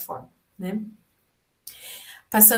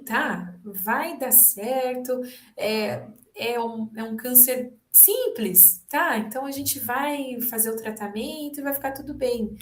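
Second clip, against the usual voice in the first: mock minimizing reassurance; 3 semitones higher than usual. Shown as a demonstration. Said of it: "Evitar, minimizar ou mudar de assunto".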